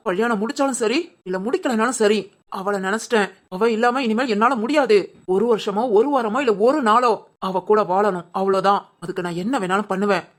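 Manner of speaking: low-pitched, determined inner vow; brooding resolve. Acted. Vowing to live with Shivani, low brooding resolve.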